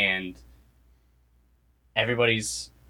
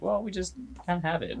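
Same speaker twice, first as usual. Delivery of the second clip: higher, fast offhand shrug; casual shrug; 9 semitones higher, 5 dB quieter, faster than usual. Retold or imitated. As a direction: toss it off like it's nothing. Dad's shrugging answer voiced.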